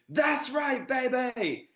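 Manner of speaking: high, hyped-up catchphrase shout; Loudmouth catchphrase. Retold or imitated. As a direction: belt it like a hype streamer. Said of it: "my favorite finish in the game".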